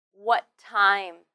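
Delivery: "What time" joined with one t sound; linked t. Shown as a demonstration. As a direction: share a single t between "What" and "time". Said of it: "only need to say one t sound".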